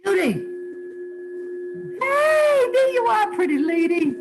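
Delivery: high, loud, gushing hello; excited greeting. Real, not acted. Medium calling out to Judy, excited high loud greeting. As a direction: call out to her with delight.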